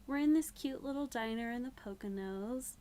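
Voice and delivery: bright fake-casual chatter that ends urgent; playing it off. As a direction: sound breezy while begging for help. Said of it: "she's trying to play it off".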